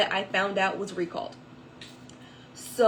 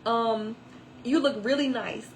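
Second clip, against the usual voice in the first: admiring stranger; 3 semitones higher, 3 dB louder than usual. Retold or imitated. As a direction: rave a little more. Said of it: "she was like".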